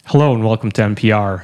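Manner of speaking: smooth close-mic public radio welcome; NPR host. Acted. Cohost copies an NPR greeting, radio host voice. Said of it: "Yeah, like that".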